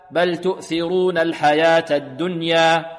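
slow chanted verse, الدنيا ending on a two-count alef; measured recitation. Shown as a demonstration. Teacher models the verse, slow recitation with الدنيا held two counts. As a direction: recite slowly and hold the end of الدنيا evenly. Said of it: "نقف عليها بمقدار حركتين".

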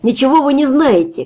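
shout. Acted. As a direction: cry out to provoke him. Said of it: "крикнул Максим".

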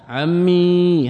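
عمي with a long drawn-out final "ee"; عمي as "ammee", ya kept; full final ya. Shown as a demonstration. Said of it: "هذا الأصل".

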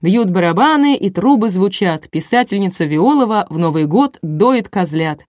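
measured showman's announcement; host building up a big reveal; TV announcer. A narrator's reading. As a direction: announce it grandly, drawing out the opening. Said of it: "объявил Николай, глядя прямо в камеру".

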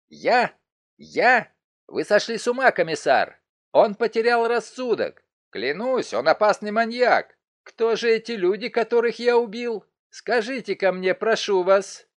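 Grukotel, accused of murder, frantically turns on the inspector; frantic denial. Acted. Grukotel shrieks that the inspector has lost his mind, hysterical.

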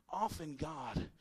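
hushed, slow sermon line; soft closing line. Acted. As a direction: let the point sink in gently. Sermon point, drawn out.

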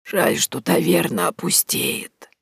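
weak regret; bitter. A narrator's reading. Old woman grieving over her tavern, bitter and frail. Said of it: "с горечью произнесла она".

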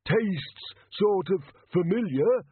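bright legless beggar Arnold; cheerful little beggar. A narrator's reading. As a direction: chirp it helpfully. Arnold chewing donations.

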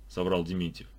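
usual speaking voice

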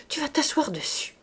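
unvoiced whisper in his ear. A narrator's reading. Wife whispering to her husband about the watch. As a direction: hush it close to his ear.

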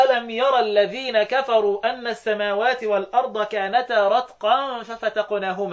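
slow measured tajweed reading; Quran recitation. Shown as a demonstration. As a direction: recite it slowly with drawn-out vowels. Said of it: "ابن كثير يقول إيه".

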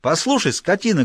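angry shout at servant. Acted. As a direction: yell it at the servant. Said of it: "кричит Икс".

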